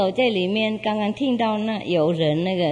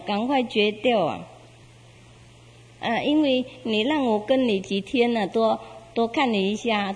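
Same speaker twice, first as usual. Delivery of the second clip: a mild creature asking for a little more time; gentle golden beast; 3 semitones higher than usual. Acted. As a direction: beast asks hunter for a few days together. Beast asks for a few days.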